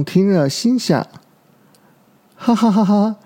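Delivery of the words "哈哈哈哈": high 'ha-ha-ha' chuckle; laughing. A narrator's reading. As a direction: voice a young dinosaur's delighted laugh. Young dinosaur laughing to himself. (小恐龙高声哈哈笑)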